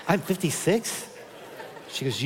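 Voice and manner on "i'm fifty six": stunned question. Retold or imitated. Stunned by wife's news.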